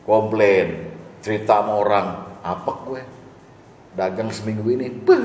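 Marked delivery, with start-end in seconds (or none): 2.4-5.2 mock complaining customer. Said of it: "pakai be gitu".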